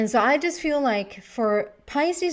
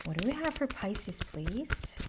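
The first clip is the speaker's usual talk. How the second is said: softer, coaxing request; gentle, kind voice; 8 dB quieter than usual. Shown as a demonstration. Tarot reader coaxing the cards to reveal, gentle. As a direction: ask the cards sweetly and softly. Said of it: "I'm speaking with my gentle and, and kind voice".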